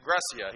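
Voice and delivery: Gracias with an s sound for the c; Latin American gracias. Retold or imitated. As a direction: say "Gracias" as GRAH-see-ahs. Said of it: "You said gracias".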